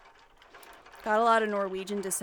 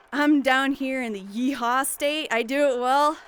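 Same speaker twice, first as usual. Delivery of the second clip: Southern accent; 3 semitones higher, 5 dB louder than usual. Shown as a demonstration. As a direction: show off a bit of Texas twang. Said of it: "I could do some Southern pretty damn good".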